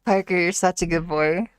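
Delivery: put-on a light Scottish accent, calling the dog by name; a second go at Scottish praise for Parker; naming Parker the dog, then praising him in a Scottish accent. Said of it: "Could I do a good boy in a Scottish accent?".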